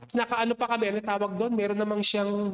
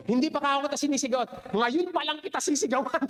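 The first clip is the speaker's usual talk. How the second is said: quick mock yell, a bit higher; retold raised voice; 4 semitones higher than usual. Preacher retelling how she snapped back at the pastor, quick mock yell. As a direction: fire back fast in a half-played shout. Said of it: "Diyan na ako nagtaas ng boses".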